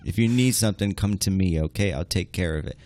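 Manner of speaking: mock Godfather. Godfather impression riff.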